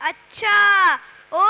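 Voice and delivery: loud, surprised cry of recognition; oh, it's you!; sudden recognition. Acted. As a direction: blurt it out as it dawns on you. Uncle suddenly recognizes Sylvester.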